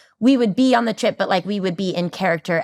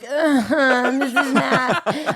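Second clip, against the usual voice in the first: mock deadpan; 6 semitones higher, much slower than usual. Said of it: "I'm like".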